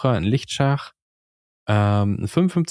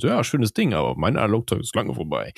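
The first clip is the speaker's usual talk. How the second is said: Forenkommentar nachgeäfft. Retold or imitated. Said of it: "die meisten Kommentare sind".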